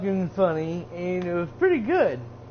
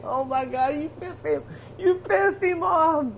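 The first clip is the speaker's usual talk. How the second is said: amazed; 8 semitones higher than usual. Retold or imitated. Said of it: "I was like".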